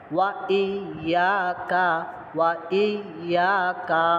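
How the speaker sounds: slow, drawn-out Quranic recitation. Shown as a demonstration. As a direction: recite it slowly for the students. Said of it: "teacher demonstrates the phrase". (ধীরে তিলাওয়াত)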